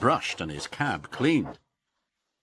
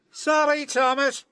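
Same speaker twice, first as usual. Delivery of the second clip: high, airy dismissive engine voice; crying out James; 6 dB louder than usual. Acted. James refusing Thomas, high dismissive cry. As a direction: brush him off. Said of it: "cried James".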